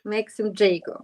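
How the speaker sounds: "Maxim Jago" echoed as MAK-sim JAY-go; corrected name pronunciation. Shown as a demonstration. Host repeating the guest's name back to him, corrected pronunciation. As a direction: repeat "Jago" carefully with an AY sound. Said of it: "That's how I say it".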